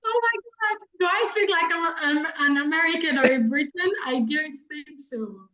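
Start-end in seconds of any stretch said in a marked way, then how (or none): 0.1-3.9 high-pitched, incredulous question; taken aback. Real, not acted. Speaker answers a question about sounding British or American, taken aback. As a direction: react in surprise, pitch jumping up at the start. Mock astonishment at accent question.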